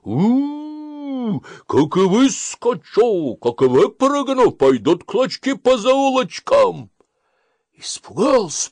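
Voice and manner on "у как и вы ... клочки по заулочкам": high, loud menacing howl of a wolf. Acted. Fox fakes a wolf's voice behind the wall, loud and menacing. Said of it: "голосом волчьим".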